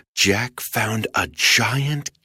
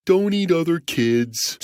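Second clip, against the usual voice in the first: sheepishly; 5 semitones higher than usual. Acted. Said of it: "said the giant sheepishly".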